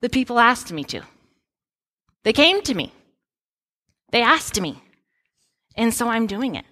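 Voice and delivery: mock-defensive Moses. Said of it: "Moses' response is".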